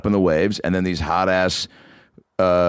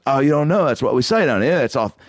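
lightly put-on Australian accent, higher; 6 semitones higher than usual. Uber driver excusing a swear word to passenger, mock Australian accent. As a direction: imitate a breezy Aussie explaining local slang. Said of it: "well, the, the way they talk".

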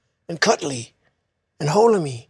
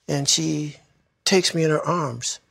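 normal talking voice

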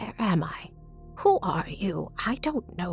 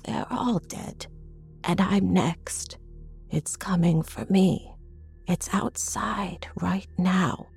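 very slow, breathy doom; haunted dread; 3 dB quieter, slower than usual. A narrator's reading. Mother sure it's coming for her, haunted dread. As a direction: drag the words out in hushed fear.

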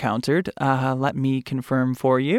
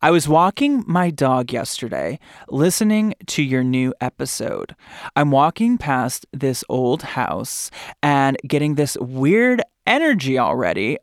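Kaylee voice. Retold or imitated. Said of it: "this is my Kaylee voice".

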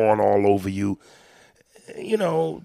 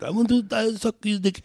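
mock Bucharest woman; 11 semitones higher than usual. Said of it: "I don't even know what a Bucharest accent sounds like".

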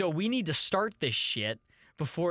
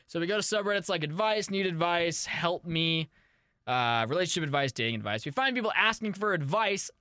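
brisk practiced show-opener read, lightly voiced; podcast intro spiel. Shown as a demonstration. Host reciting his usual spiel to the listeners, brisk and practiced. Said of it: "Do you know the spiel that I do?".

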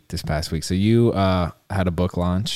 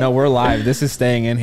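laughing; 3 semitones higher than usual. Real, not acted. Laughing at cohost choking.

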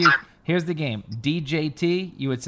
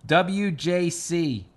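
buzzy glitchy call audio; 4 semitones higher, much slower than usual. Real, not acted. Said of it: "you keep cutting out on me".

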